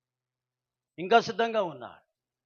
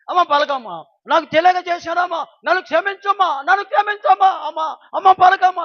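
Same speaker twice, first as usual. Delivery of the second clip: crying out for forgiveness; 9 semitones higher, 12 dB louder than usual. Acted. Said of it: "అని కేక వేస్తుంది".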